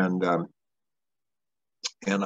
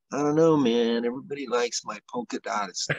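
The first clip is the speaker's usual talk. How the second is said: Snake impression; 4 semitones higher than usual. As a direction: do a loose impression of a laid-back racer. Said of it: "I'll do my snake impression".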